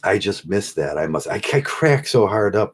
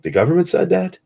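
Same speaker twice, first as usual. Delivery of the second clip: pitched way up in mock disbelief; a high, disbelieving double take; incredulous; 12 semitones higher, faster than usual. Husband hearing the government said so, pitched up in mock disbelief.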